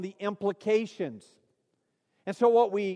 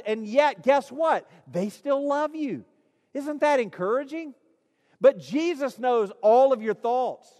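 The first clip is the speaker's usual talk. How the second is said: raised-pitch, insistent sermon delivery; fervent preaching; 4 semitones higher than usual. Real, not acted. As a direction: press the point home to the congregation. Preaches with rising fervour.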